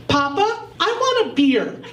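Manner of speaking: put-on sweet toddler voice. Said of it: "very sweetly".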